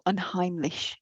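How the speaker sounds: unheimlich in a self-confessed bad German accent; a mild stab at a German accent; awful German accent. Shown as a demonstration. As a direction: attempt unheimlich the German way, apologetically. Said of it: "Apologies for my awful German accent".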